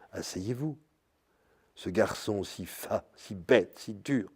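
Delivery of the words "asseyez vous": a soft, gentle invitation to sit; softer, tender request to sit down; very gently. Retold or imitated. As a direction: say it quietly, as if offering your seat. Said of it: "pour que vous lui disiez très doucement".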